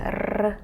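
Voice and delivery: "r" trilled as in Spanish; a demonstrated Spanish "r"; Spanish rolled r. Shown as a demonstration. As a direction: roll the "r" the Spanish way. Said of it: "in Spanish".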